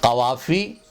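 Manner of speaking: "कवाफ़ी" repeated with throaty q; careful back q in "कवाफ़ी"; correct pronunciation. Shown as a demonstration. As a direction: say "कवाफ़ी" as qavafi. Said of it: "इसको बोलें कवाफ़ी".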